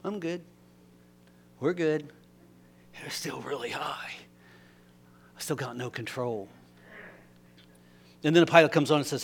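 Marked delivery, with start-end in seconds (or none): 0.0-6.5 soft murmured calming words; hushed self-talk on the plane; quiet self-reassurance. Retold or imitated. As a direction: talk yourself down gently. Calming self-talk after breathing.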